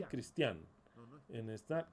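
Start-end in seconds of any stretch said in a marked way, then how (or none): 0.0-0.7 "Christian" accented on the final A; stress on the A. Shown as a demonstration. Speaker demonstrating the viewers' mistake, "Christian" stressed on the A. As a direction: land the stress of "Christian" on the last syllable. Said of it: "put an accent mark in the A".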